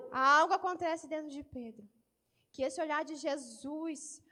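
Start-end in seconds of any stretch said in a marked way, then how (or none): 0.1-1.9 louder, stress on algo; emphatic repeat. Shown as a demonstration. Preacher repeating to the church, stressing algo. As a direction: preach it out the second time.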